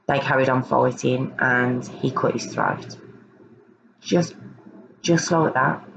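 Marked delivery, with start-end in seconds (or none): 4.0-5.8 cold, matter-of-fact. Retold or imitated. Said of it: "That's how he says it".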